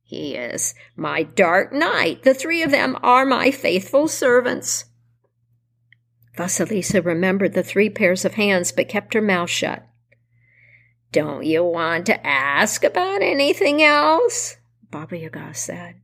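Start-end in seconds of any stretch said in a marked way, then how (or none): 0.0-4.8 lightly voiced old witch; slow, proud crone. Baba Yaga voice in story. 11.1-14.6 put-on slow, sly old witch; a hint of a crafty crone. Baba Yaga questions Vasilisa.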